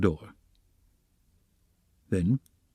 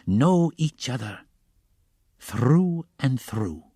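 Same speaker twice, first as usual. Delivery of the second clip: "know each other through and through" very slow, falling at the end; drawn-out assent; 4 semitones higher, much slower than usual. A narrator's reading. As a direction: stretch every word of "through and through" into a knowing echo. Porfiri echoes Raskolnikov in assent.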